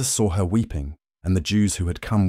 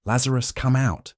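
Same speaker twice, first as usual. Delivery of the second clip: raised, higher-pitched command; calling out loudly; 7 semitones higher than usual. A narrator's reading. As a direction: call him out with a high, ringing summons. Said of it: "he called out in a loud voice".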